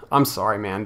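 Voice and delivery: plain sincere sympathy; mean the apology this time; straight-faced sympathy for the embarrassed fan; sincere sorry. Real, not acted. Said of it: "I feel so bad for your situation".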